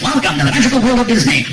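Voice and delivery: mock announcer voice, grand and cheerful; theme park announcer. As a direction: play the park's welcome announcement.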